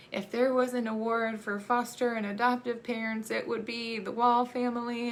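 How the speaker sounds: a hint of a proud therapist heaping praise; encouraging therapist. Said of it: "her response to me was".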